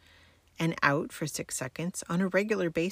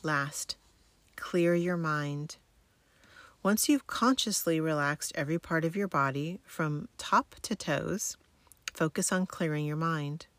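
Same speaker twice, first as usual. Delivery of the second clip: sleep story narrator. Acted. Guides military sleep method relaxation.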